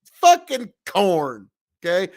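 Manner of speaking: farm drawl. Shown as a demonstration. Streamer showing local farm speech, mild drawl. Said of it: "the way any farm around here would say it".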